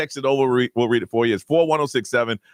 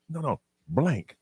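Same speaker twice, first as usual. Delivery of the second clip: slow, softer, spaced-out words; coaching a parrot; 2 semitones lower, 6 dB quieter, slower than usual. Retold or imitated. Host as a kid teaching a parrot, slowly. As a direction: spell it out slowly for a bird. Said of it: "tried to teach it bad words".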